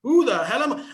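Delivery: slow, drawn-out, loud bewilderment; acted identity crisis, loud and stretched; exasperated cry. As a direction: wail it in mock despair. Acting out identity overload.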